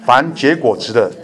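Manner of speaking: slow, measured, solemn Bible reading; slow scripture reading. Acted. Pastor reads John fifteen aloud to the church, slow and solemn. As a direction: read each phrase deliberately so the flock can follow.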